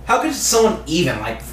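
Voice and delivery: put-on over-the-top valley girl accent. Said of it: "like, White Valley Girl".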